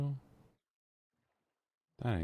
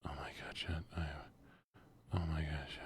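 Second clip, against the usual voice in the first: hushed gasping whisper; 9 dB quieter than usual. Real, not acted. Whispering to chat over a lucky find.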